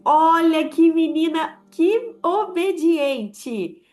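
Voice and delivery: high, slow, gushing mother's praise; doting mother. Retold or imitated. Mother praising her obedient little girl, high and gushing. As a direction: stretch out the praise like a proud mom. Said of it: "você ouvia sua mãe falando assim".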